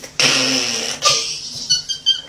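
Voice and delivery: squealed, shrieking giggle; high-pitched squeal of laughter. Real, not acted. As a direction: burst into a high, loud cackle. Laughing at her own secret.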